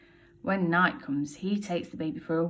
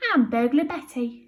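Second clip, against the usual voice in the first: Betty voice; 5 semitones higher, 6 dB louder than usual. Acted. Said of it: "says the lady".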